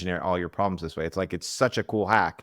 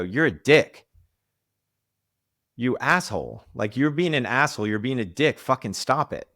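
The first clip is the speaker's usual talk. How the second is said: mock angry friend; 5 semitones higher, 4 dB louder than usual. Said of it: "he didn't go".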